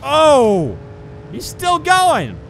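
high, slow amazed shout; loud disbelief, stretched out; surprised. Real, not acted. Car keeps driving under fire.

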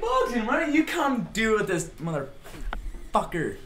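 high giggling sarcastic cheer; sarcastic high laughing yay; laughing mock cheer. Real, not acted.

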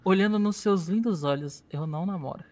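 mock romantic. Real, not acted. Slow mock-romantic vow.

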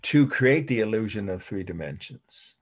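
measured end of a dictated definition; deliberate, careful phrasing; slow dictation. Shown as a demonstration. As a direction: dictate it evenly for note-takers. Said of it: "I will say it slowly".

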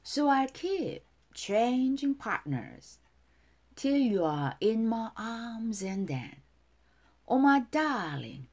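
lyrics recited in lilting, separated phrases; feeling, dance-like. Shown as a demonstration. Teacher modelling song lyrics for students, feeling and dance-like lilt. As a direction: recite it as if dancing, pausing after each phrase. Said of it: "감정 넣어서 춤을 추듯이 발음해 볼게요".

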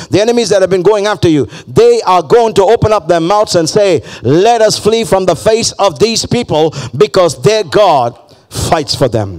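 rising, half-sung preacher's cadence; preaching at full force. Acted. Preacher lifting the crowd with a sung rise. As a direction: sing it out over the music like a preacher.

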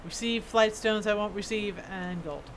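lightly voiced dwarf smith, matter-of-fact; a hint of a kindly craftsman handing over work; dwarf smith character.

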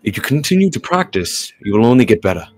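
measured, composed character reading; careful, articulated story-reading delivery; game dialogue read-aloud. Acted. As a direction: voice the lines as a patient mentor. Reads game character's lines.

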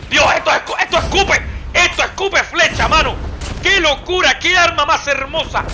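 high, loud gushing; thrilled shouting. Real, not acted. Streamer shouting praise about the arrow-spitting weapon. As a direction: rave about the weapon at full voice.

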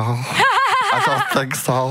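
strange alien voice, drawn out; half-joking creature voice that breaks into laughter; slightly Gollum-like. Pretend. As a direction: play a silly Gollum-ish alien, stretching it out. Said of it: "slightly Gollum adjacent".

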